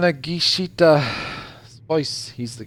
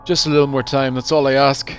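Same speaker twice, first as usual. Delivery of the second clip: understated plea, a bit louder; pleading; 5 dB louder than usual. Acted. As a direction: beg with mild urgency. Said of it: "he pleads".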